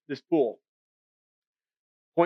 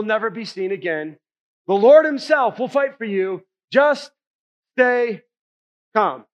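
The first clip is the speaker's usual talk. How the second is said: Moses rallying the people, louder; stirring call to stand firm; a preacher voicing Moses reassuring his frightened people; rousing speech; 4 dB louder than usual. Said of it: "Moses has this great speech".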